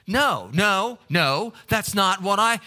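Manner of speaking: loud, high, slowed insisting no; wife objecting. Retold or imitated. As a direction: push back hard on her husband. Wife escalates the argument.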